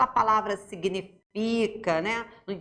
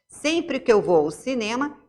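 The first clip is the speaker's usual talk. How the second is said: reading aloud. Acted. Reads dictionary entry aloud.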